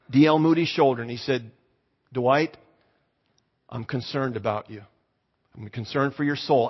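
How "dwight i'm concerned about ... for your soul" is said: gentle concern. Retold or imitated. Tongue-tied teacher to young shoe seller, gently concerned. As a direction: say it quietly, with hesitant care.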